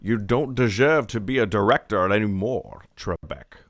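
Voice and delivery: put-on low, loud Scottish accent; hammed-up Scottish accent; Sean Connery impression. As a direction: scold in a deep Scottish burr, dropping off on the last word. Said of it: "Good Sean Connery".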